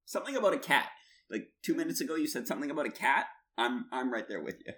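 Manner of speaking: high-pitched, eagerly clueless listener; hammed-up high questioning; mock eager bluffer. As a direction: act like you've caught a scrap and are following. Acting out catching scraps of French.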